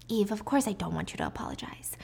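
breathy, voiceless menace; cold whisper. Acted. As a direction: hush it, icily calm. Diana's cold reply.

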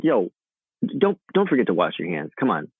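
lightly voiced dad reminder. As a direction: nag mildly, with a hint of dad. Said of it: "I say it in my dad voice".

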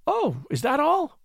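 high, slow cry of relief; relieved cry. A narrator's reading. Woman hearing it is only money, crying out in relief. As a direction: let the worry drain out of it. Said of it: "in great relief".

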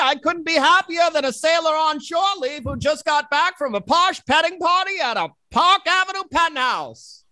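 1930s radio host voice; old-time radio announcer, bright and eager; transatlantic announcer voice. Acted. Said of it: "Transatlantic nineteen thirties radio announcer voice".

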